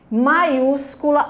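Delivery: "Maiúscula" slowly, weight on ús; slow teacher's demo of "Maiúscula", stressed on ús. Shown as a demonstration. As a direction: model "Maiúscula", stretching it around ús. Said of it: "a sílaba tônica us".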